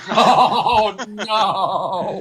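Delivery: oh no, said through laughter; laughing. Real, not acted. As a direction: laugh it out, high and bright. Laughing at a friend's joke.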